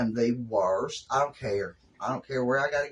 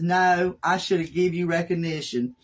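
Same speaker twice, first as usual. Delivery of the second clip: imitating stepdaughter; 5 semitones higher, 3 dB louder than usual. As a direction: play the sorry stepdaughter, pitched up. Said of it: "She says".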